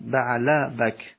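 slow "بعله بک", "baʕla bak" with fatha on بعل; fatha on first part. Shown as a demonstration. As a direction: draw out "بعله بک" slowly, a after بعل.

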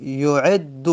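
یعد said slowly with a doubled held d; teacher sounding out یعد slowly; slow merged form. Shown as a demonstration. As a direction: lean on the doubled dal in یعد.

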